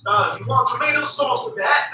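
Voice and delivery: lightly attempted Australian accent; failed Australian accent. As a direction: try an Australian accent and miss. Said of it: "That's my failed Australian accent".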